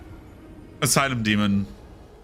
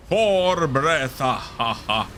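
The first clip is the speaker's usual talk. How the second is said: Count counting; slower than usual. Pretend. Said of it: "making fun of Count Count from Sesame Street".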